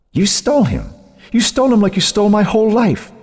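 very high, otherworldly taunt that rises; cruel taunting ghost. Acted. Cynthia's voice taunting Joan, cruel and gloating. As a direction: gloat over her sister. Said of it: "Cynthia only laughed".

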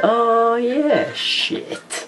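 high, drawn-out replay of an outburst; mock your own high-pitched cry; mimicking own exclamation. Laughing at his own outburst on the vlog, high mimicked exclamation. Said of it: "I was just like".

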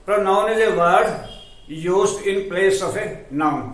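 very slow, word by word, for students to write down; slow dictation. Shown as a demonstration. Teacher dictating a definition to students, very slow and clear. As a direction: spell it out slowly so the class can copy.

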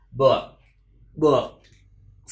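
"books" with k held, then a long s. Shown as a demonstration. Teacher showing learners the ending, "books" with drawn-out s. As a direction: stop on "Book", then release "books" into a hiss. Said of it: "Không rơi âm cờ xuống thì mình rưa ra âm S luôn".

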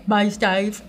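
lightly put-on Cockney; a hint of jokey Cockney; Cockney accent. Shown as a demonstration. Nail tech showing how she says the polish name, in mock Cockney. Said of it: "Cockney accent".

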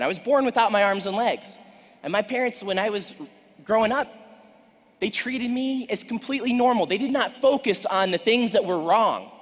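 loud, high, driving keynote delivery; booming motivational speech. Acted. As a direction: preach it at full force. Motivational speech building to full force.

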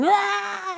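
long, high, loud mock scream; imitated wail of pain. Injured motorcyclist lying on the road, imitated wail. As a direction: wail like a hurt rider, held high.

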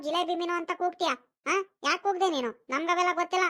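mildly indignant telling-off; lively, reproachful challenge; scolding. Acted. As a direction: take the seller to task. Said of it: "ಯಾಕ್ ಬೈತೀಯ".

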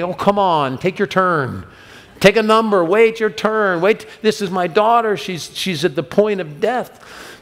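the desperate father fed up with the delay; mock impatient. Imagined impatient Jairus complaining.

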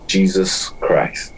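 slow hushed whisper; whispered name. Acted. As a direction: breathe the name out slowly. Narrator ends list dramatically.

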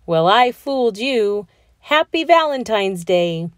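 husband gloating to wife; booming. A narrator's reading. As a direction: boom it out proudly. He boomed before.

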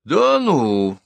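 sharp-tongued gossip cries out in surprise; surprised cry. A narrator's reading. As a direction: cry out in gleeful shock. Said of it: "вскрикивает Милка Шутова".

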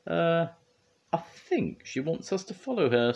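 high-pitched storybook figure; Wendy's character voice. A narrator's reading. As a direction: voice a puzzled helper up high.

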